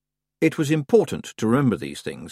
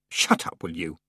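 snapped; 5 semitones lower, 3 dB quieter than usual. A narrator's reading. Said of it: "snapped Tiffany".

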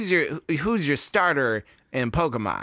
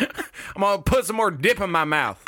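Little League coach; 4 semitones higher than usual. Acted. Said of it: "like a Little League coach".

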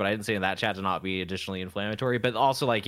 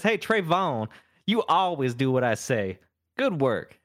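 boss man voice; 2 semitones higher, slower than usual. Acted. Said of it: "Boss Man says".

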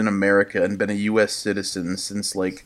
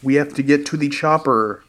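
higher, urgent Austrian action-hero voice; mock Arnold movie line; 5 semitones higher than usual. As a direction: play it as a hammed-up Arnold warning the squad. Quoting Arnold movie lines.

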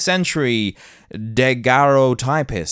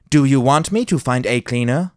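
faster retake, rising on me; quicker redo; faster than usual. Shown as a demonstration. Redoing the line quicker with a lift on me. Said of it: "I'll do that again".

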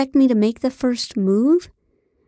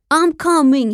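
loud, high mock-climax cry; screamed; 7 semitones higher, 5 dB louder than usual. A narrator's reading. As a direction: scream it in hammed-up ecstasy. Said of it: "he screamed".

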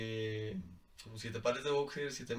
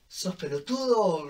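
Argentine teasing; 5 semitones higher, 6 dB louder, slower than usual. Retold or imitated. Argentine friends teasing him.

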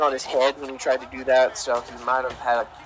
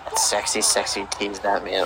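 mock sultry; 5 semitones lower, 3 dB quieter than usual. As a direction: tease it like a lounge crooner. Repeats mock seductive remark.

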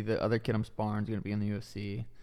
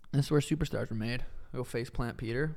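put-on a light, half-hearted British accent on a callout; 2 semitones higher than usual. Mock fight callout to Peter, lightly British accent. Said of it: "Nice little call out in your British accent".

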